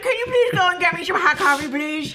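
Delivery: high, lightly voiced lady; lady impression. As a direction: call for coffee in a light lady voice. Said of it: "This is my lady impression".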